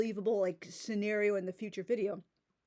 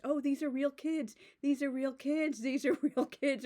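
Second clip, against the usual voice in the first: mock emphatic; 4 semitones higher than usual. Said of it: "whooping it up, trying to emphasize".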